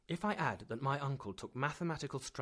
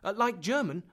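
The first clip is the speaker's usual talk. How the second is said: sly aside; 10 semitones higher, 10 dB louder than usual. A narrator's reading. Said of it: "I slipped in fortuitously".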